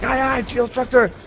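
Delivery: high, loud recruit's shouted reply; shouted aye aye. Retold or imitated. Recruit answering the screaming drill instructor, high loud shout. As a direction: bark it back at full volume like a recruit. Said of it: "I'm like".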